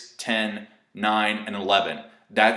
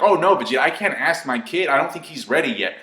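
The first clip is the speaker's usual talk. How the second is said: lightly voiced, higher-pitched worried dad; mock Goku protest; 5 semitones higher than usual. Goku telling Vegeta about his kid, mock-worried. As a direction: play a clueless father making excuses.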